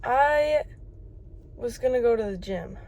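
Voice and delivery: just woke up; groggy morning voice. Real, not acted. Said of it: "apologies for the morning voice".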